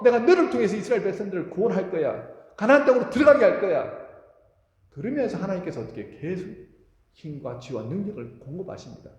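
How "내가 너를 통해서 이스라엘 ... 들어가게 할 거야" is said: God's promise. Acted. God's promise voiced in sermon.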